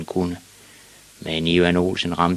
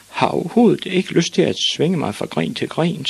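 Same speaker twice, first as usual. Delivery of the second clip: put-on high-pitched whiny little boy; protesting boy; 10 semitones higher than usual. A narrator's reading. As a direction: protest in a small boy's high voice.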